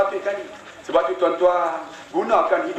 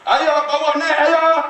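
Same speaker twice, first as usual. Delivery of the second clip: put-on much higher, louder child's cry begging to be lifted out; pleading child; 8 semitones higher, 3 dB louder, much slower than usual. Daughter in the pit begging her father: high pleading cry. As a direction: call up from the pit, desperate.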